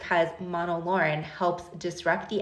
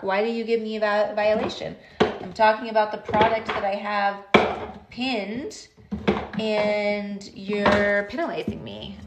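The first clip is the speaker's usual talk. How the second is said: exasperated, slightly raised pitch, real frustration; heated complaint; 2 semitones higher than usual. Real, not acted. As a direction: scold the app like it wronged you. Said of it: "Got a little heated there with TikTok".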